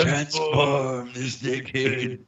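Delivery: slow, drawn-out evil incantation; faint voice. Pretend. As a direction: intone it like an ancient spirit. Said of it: "a faint voice from her crotch going".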